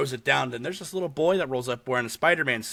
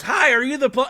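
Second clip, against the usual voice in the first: put-on old lady voice; 10 semitones higher, 6 dB louder than usual. Old lady voiced in retold film.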